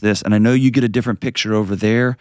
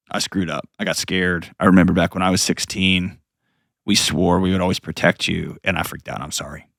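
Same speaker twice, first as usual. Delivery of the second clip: choked up. Real, not acted. Father apologizing to his sixteen-year-old, tearful. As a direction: fade to a near-silent I'm sorry. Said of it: "gonna get all choked up".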